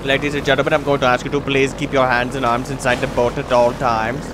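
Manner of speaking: lightly voiced boat-ride announcer; tour announcer. Pretend boat guide warns riders about hands and arms, announcer-like.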